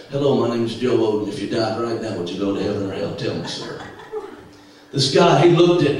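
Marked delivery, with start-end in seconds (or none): 0.1-3.8 eager street evangelist line. Retold or imitated. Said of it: "this was my line".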